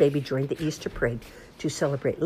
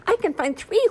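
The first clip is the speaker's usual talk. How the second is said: whooping; 5 dB louder than usual. Acted. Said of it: "whooped Floppy".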